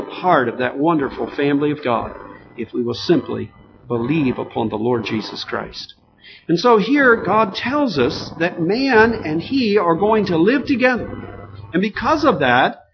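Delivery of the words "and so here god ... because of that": raised pitch, forceful sermon delivery; emphatic preaching. Real, not acted. Preacher telling the congregation God will live with man, emphatic preaching. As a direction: drive each phrase home to the congregation.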